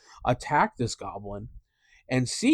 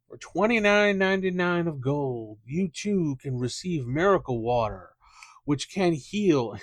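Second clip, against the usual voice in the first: mock televangelist; 4 semitones higher than usual. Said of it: "Jimmy Swaggart style".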